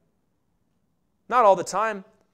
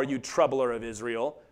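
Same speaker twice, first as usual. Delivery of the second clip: muttered insult; 10 semitones lower, 7 dB quieter than usual. Retold or imitated. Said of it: "Ahab goes".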